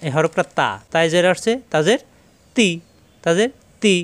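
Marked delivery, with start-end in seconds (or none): 1.7-3.9 "তি" with a light t, tongue tip behind the upper teeth; thin, unpressed t in "তি"; soft, thin ta. Shown as a demonstration. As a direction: say "তি" softly with no pressure, thin vowel. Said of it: "নরম করে".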